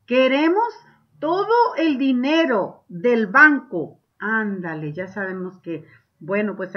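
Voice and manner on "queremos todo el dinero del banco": exclaimed demand. Shown as a demonstration. Teacher voices robbers exclaiming their demand. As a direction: demand it all, loud and slow. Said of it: "con signo de exclamación".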